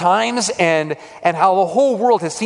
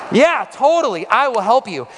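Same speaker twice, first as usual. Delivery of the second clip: higher-pitched, willing retold yes; eager agreement; 4 semitones higher than usual. Preacher replaying his answer to the widow, eagerly agreeing. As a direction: jump at the chance to help, lightly acted.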